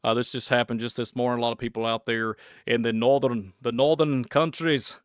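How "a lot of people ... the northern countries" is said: lightly put-on northern voice, slightly slowed; bad northern accent. Shown as a demonstration. Vlogger mocking himself with a bad northern accent. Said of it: "that's a terrible, terrible impression".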